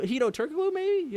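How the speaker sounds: high questioning lift; unsure guess. Real, not acted. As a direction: voice climbs sharply into a question. Unsure recalling who took shot.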